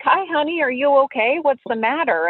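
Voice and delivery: lightly voiced sweet grandma checking on a lost kid; kindly old lady. Kind old woman approaching crying child.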